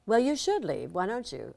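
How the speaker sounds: loud, high mock mother snapping back; mother's snappy retort. Mother snapping at her grown daughter, loud and mock-stern. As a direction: toss it back like a bossy mother.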